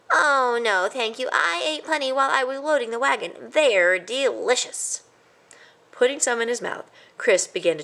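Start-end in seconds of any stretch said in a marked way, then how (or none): 0.1-5.0 higher, easy mouse voice; polite mouse. A narrator's reading. A cousin politely declines, light and high. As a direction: answer lightly and kindly.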